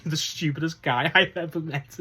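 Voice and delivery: retold insult interrupted by a laugh; amused imitation of the jab; laughing quote. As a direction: giggle through the quoted line. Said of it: "That small line".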